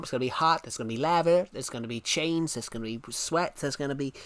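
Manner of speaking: put-on American accent, rattling off a list. Shown as a demonstration. Streamer showing guys how hell sounds in America, American accent. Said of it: "the hell described in American accent".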